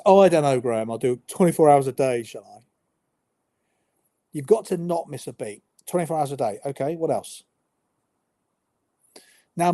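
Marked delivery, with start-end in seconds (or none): 0.1-2.6 sarcastic. Acted. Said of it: "sarcastic answer". 5.9-7.4 matter-of-fact, as if the sarcasm went unnoticed; wide-eyed innocent. Shown as a demonstration. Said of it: "being slightly wide-eyed and innocent".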